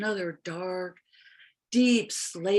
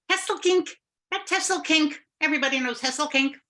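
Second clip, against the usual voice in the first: confident; 7 semitones higher than usual. Acted. Linnea names the plants.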